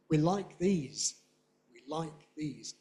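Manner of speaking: slow, weak "We", stress on "like" and "these"; stressed demonstrative. Shown as a demonstration. Teacher modelling demonstratives, stress on these. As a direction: give "these" full weight. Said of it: "very often stressed".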